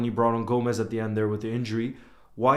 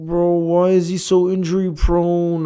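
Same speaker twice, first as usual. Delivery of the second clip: exasperated lament; 6 semitones higher, 5 dB louder, slower than usual. Real, not acted. Lamenting Bradley's injuries.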